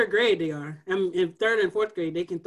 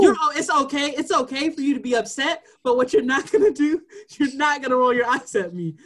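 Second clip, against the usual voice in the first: raised, louder no-nonsense teacher voice; firm teacher warning; 5 semitones higher, 6 dB louder than usual. Retold or imitated. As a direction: set the student straight. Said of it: "I said".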